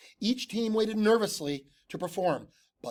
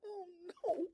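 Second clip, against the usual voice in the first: horrified; 13 semitones higher, 11 dB quieter than usual. A narrator's reading. Horrified gasp.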